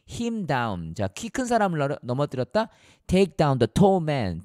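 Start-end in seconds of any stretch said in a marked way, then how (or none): 3.1-4.4 very slow, "tall" stressed; slow example sentence. Shown as a demonstration. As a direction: read "take down the tall man" slowly, leaning on "tall". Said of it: "이렇게 말하면 돼요". ("tall"에 힘주어 천천히 읽기)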